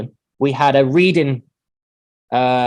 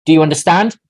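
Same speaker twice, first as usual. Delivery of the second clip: louder rising check question; teacher checking understanding; 6 dB louder, faster than usual. Acted. Teacher finishes by asking students, louder and rising. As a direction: ask it out loud to the class. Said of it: "I will finish by saying".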